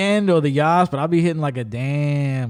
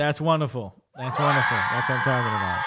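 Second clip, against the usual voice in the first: laughing and cheering it out; a happy laughing shout of praise; 3 semitones lower than usual. Real, not acted. Cheering a friend's weight loss with a laugh.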